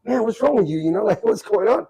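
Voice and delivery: retold high, loud questioning; alarmed bystander. Classmates asking the giggling stoned kid what's wrong, alarmed. Classmates reacting to his laughing fit.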